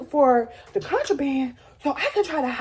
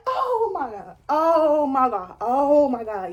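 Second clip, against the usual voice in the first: losing it; slower than usual. Retold or imitated. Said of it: "I'm losing it".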